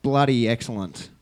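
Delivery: broad Australian slang delivery; Australian redneck accent. Pretend. Showing off best Australian accent, broad redneck Australian. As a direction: lay on a thick Australian "mate". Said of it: "That's an Australian redneck accent".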